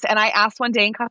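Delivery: normal talking voice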